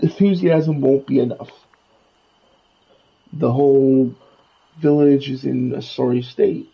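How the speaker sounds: lightly voiced Scrooge. Scrooge tells the player about the village, lightly voiced. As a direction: lightly play the grumbling old money duck.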